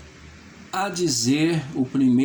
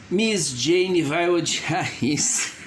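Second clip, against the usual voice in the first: acted laugh; 3 semitones higher, slower than usual. Character mutters aside, laughing in monologue.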